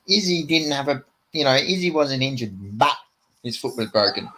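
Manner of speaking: imitated halting delivery with stranded filler words; delaying every sentence. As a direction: mimic someone's stalling speech tic. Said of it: "Just fucking delaying every sentence".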